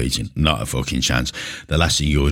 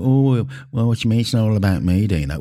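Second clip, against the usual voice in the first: high, fast mock protest; mock outrage from a gym filmer; mock indignant gym-goer; 5 semitones higher than usual. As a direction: imitate the offended filmer, higher and faster. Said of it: "this is gonna get a little bit".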